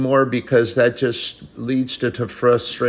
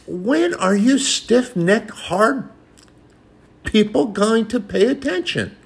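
voice of God; 10 semitones higher than usual. Retold or imitated. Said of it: "And God said".

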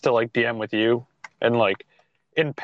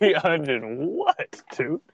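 slow disbelief; much slower than usual. Retold or imitated. Replaying his shocked reaction.

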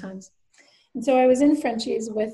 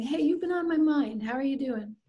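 brighter, higher hello, casual and open; lighter, open greeting; 4 semitones higher than usual. Shown as a demonstration. Contrasting two greetings, lighter check-in. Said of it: "interesting distinction between going up".

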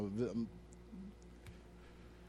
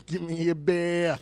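put-on Boston accent; 2 semitones higher, 4 dB louder, slower than usual. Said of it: "he sounds like if he's from Boston".

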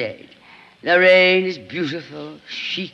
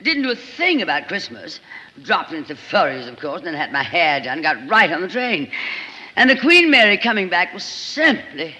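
chattering society actress. Acted. Lorraine chattering gossip.

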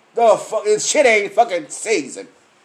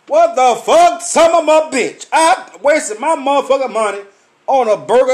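higher and louder, a disgusted yelp; shocked outburst; 5 semitones higher, 4 dB louder than usual. Real, not acted. After biting a bland burger, an outraged yelp. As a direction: spit it out in disbelief.

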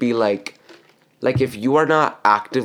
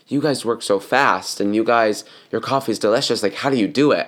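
lightly put-on British accent. Customer complaining about coffee shops back home, in a light British accent. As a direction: imitate a chatty British customer. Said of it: "but with a British accent".

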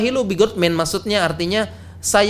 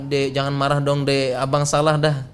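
lightly acted coaxing, a little lower; mock coaxing; 4 semitones lower than usual. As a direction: play a husband gently cajoling his wife. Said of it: "Apa sering bujuk ya".

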